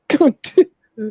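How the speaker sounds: high, slow Baltimore drawl; Baltimore accent. Retold or imitated. Joining the panel's impressions, slow Baltimore accent. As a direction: stretch out a mimicked Baltimore "do".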